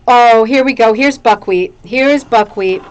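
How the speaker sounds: loud excited greeting. Real, not acted. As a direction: announce it with delight. Showing a new rug.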